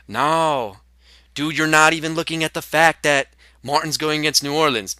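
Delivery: a loosely put-on buddy voice, mildly mocking; half-hearted impression of a laid-back friend arguing a point; Rob Coffey impression. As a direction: imitate your co-host, not quite landing it. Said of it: "your Rob Coffey impression fucking sucks".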